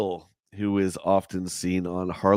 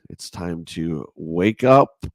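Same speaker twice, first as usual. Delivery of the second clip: slow wake-up call; 3 semitones lower, 4 dB louder, slower than usual. Shown as a demonstration. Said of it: "take it down a little bit".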